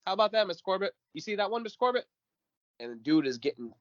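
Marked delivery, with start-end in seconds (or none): 0.1-2.1 high, sing-song gloating taunts; cocky taunting boxer. Retold or imitated. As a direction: rub it in to Mr Corbett, high and cocky. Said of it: "Johnson will just back".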